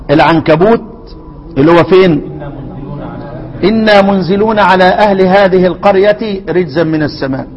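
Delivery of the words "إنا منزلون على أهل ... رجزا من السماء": Quran recitation. Acted.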